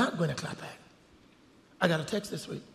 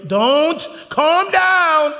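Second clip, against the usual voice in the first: mock shout; 8 semitones higher, 9 dB louder, much slower than usual. Real, not acted. Teasing crowd loudly.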